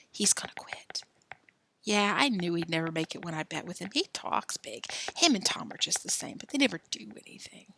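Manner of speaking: conspiratorial whisper between friends; whispering boys. Acted. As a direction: breathe it like a secret. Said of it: "Alan and Joe whispering together".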